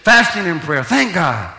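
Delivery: loud, rising preacher's cadence; preaching at full force. Real, not acted. Pastor exhorting his church, loud and fervent. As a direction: pound the words home to the congregation.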